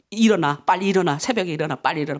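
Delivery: lightly acted low-pitched husband; husband waking wife. Husband prodding wife awake for dawn prayer, mild low nagging. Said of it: "우리 남편들이 생각하는 거예요".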